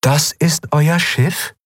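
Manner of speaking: slow, high, doubtful question; incredulous, measured disdain; sceptical alien. A narrator's reading. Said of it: "skeptisch schräg gelegtem Kopf".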